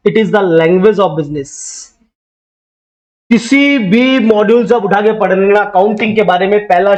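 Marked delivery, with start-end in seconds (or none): 0.1-1.5 very slow, each word set apart; slow dictation. Shown as a demonstration. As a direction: spell it out slowly for notes. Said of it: "पहला word लिखा होगा".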